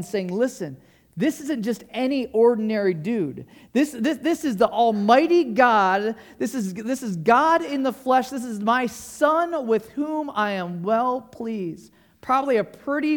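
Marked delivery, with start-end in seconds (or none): 0.3-11.9 mildly raised, emphatic voice of God; powerful voice from heaven. Acted. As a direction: declare it firmly, as if from heaven. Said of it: "a pretty powerful voice coming down from heaven".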